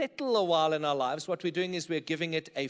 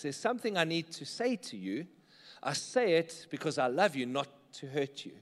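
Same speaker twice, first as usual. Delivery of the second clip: sincere repeat; 4 semitones lower, 5 dB quieter than usual. Shown as a demonstration. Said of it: "how do you use truth and love".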